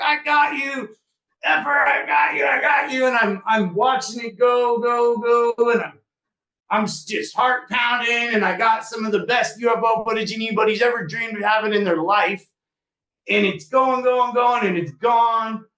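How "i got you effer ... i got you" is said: high, thrilled, excited screaming. Speaker retells filming a UFO and screaming at the phone; retell the scream. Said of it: "I'm screaming at my phone like".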